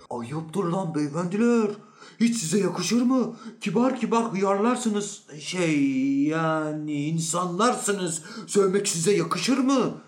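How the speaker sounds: high-pitched indignant reproach; loud scolding. Acted. Bystander scolds the quarrelling men.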